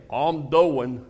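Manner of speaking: lightly voiced flat Virginia drawl; a hint of a worn-out man; imitating Chief. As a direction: give his tired mumbled answer. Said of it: "He'd say".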